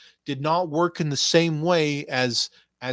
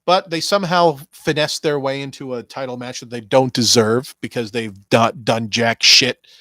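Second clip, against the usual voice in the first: ordinary talk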